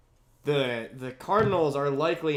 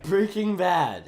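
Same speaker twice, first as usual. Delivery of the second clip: slow "Breaking Bad", up then down; deliberate demonstration of "Breaking Bad"; up-and-down rhythm; slower than usual. Shown as a demonstration. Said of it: "You, you go up and down".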